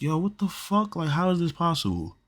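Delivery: high-pitched, incredulous retelling; retold disbelief. Telling of seeing the TV while out of body, high-pitched disbelief. Retells his shock at the dancing TV.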